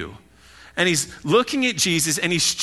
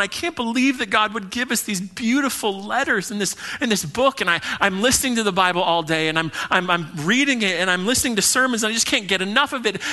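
higher-pitched, overwhelmed retelling; imitating tearful awe; 6 semitones higher than usual. Woman telling the pastor she finally gets the Bible, retold tearful wonder. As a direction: act out a woman moved nearly to tears. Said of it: "tears in her eyes".

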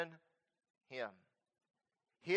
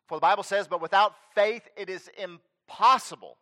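louder, fervent preaching, slowing at the end; rising preaching; 3 semitones higher, 8 dB louder than usual. Acted. Pastor urging his church to stay faithful, louder fervent preaching. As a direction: build up and drive it home.

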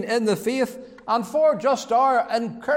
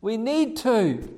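"need" leaned on, slowly; slow down and press on the word "need"; stress on need; 3 semitones higher than usual. Real, not acted. Preacher urging the congregation what we need, stressing "need". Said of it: "I emphasize the word need".

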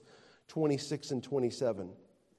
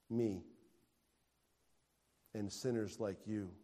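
softer tender preaching; 4 semitones lower, 8 dB quieter than usual. Real, not acted. Soft tender description.

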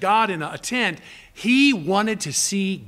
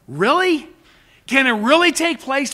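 doubting question; 6 semitones higher, 5 dB louder than usual. Acted. Preacher voices doubting Zacharias.

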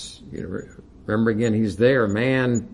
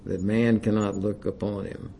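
measured, deliberate recitation building each "So holy is God"; solemn reading. Shown as a demonstration. Preacher reading phrases to the congregation, solemn recitation. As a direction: read it like a litany of awe. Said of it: "I'm gonna read these little phrases here".

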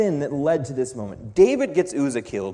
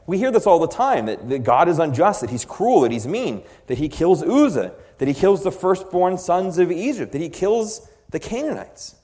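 rising mock outrage; 5 semitones higher, 4 dB louder than usual. Listing complaints against God.

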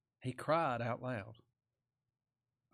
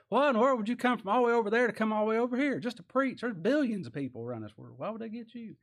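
higher, quick, incredulous local; puzzled outsider asking, voice raised; incredulous questioning; 7 semitones higher, 3 dB louder, faster than usual. Retold or imitated. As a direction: fire off a baffled question.

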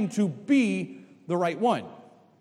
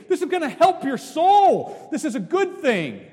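excited exhortation; 7 semitones higher, 4 dB louder than usual. Acted. Preacher exclaims to youth.

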